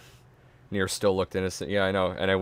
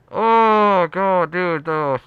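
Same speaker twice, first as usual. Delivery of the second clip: loud high wail breaking into laughter; helplessly amused, high-pitched exclamation; laughing disbelief; 8 semitones higher, 7 dB louder, much slower than usual. Real, not acted. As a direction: groan it out, then crack up. Breaks up at the bad excuse.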